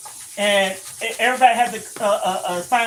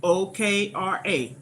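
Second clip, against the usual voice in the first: spelling it out; 2 semitones lower, slower than usual. Shown as a demonstration. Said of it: "It's okra".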